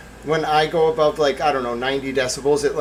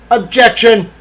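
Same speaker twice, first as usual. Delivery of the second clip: mock lawyer; 9 semitones higher, 10 dB louder, slower than usual. Mock courtroom call.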